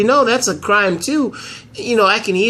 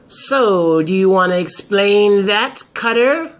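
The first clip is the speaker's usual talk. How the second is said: confronting lawyer; 3 semitones higher, 3 dB louder, slower than usual. Acted. Taya confronts Cutter.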